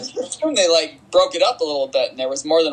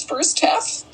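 odd drawn-out delivery; 9 semitones higher, much slower than usual. Real, not acted. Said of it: "I don't know why I just said it like that".

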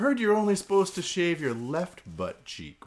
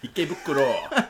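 laughing. Real, not acted. Friend repeats name, amused.

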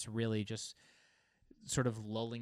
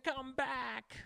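high, hammed-up pleading call; playful desperate plea; mock plea; 13 semitones higher than usual. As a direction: beg the feeling to return, overdone. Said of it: "I'm like".

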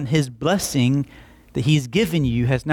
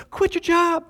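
God's command; 14 semitones higher than usual. Retold or imitated. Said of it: "And he goes".

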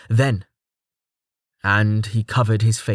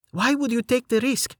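serious; 13 semitones higher than usual. Acted. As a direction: ask it gently serious. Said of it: "her voice became more serious".

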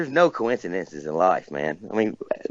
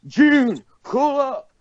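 raised voice calling out, much higher pitch; a country singer impression; much slower than usual. Retold or imitated. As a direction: call out in a high, raised impression of an old singer. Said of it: "when he raises his voice".

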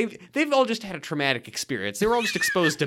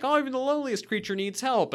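termite voice; 10 semitones higher than usual. Retold or imitated. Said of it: "being like".

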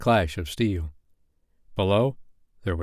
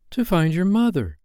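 coaxing; 9 semitones higher than usual. A narrator's reading. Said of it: "she coaxed".

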